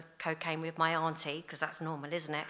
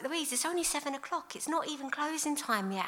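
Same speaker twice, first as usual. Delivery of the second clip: imitating boyfriend; 8 semitones higher than usual. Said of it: "would be like".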